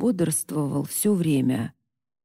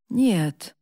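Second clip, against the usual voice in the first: cold one-word lash; curt and indifferent. Acted. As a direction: snap it without caring. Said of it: "Ответ был хлёстким и равнодушным".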